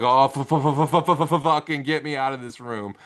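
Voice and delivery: mock-terrified stutter, stuck on the F; retold terror. Man retelling his eight-year-old self fleeing a horror film, terrified stammer. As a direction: stammer the swear, then blurt it out as if panicking. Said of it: "I was terrified".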